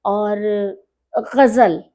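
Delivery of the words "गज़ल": "गज़ल" with guttural gh, set apart; model pronunciation. Shown as a demonstration. Urdu poet closes her list of words, careful model pronunciation. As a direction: demonstrate "गज़ल" louder, from the throat. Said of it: "गज़ल कहना सीखिए".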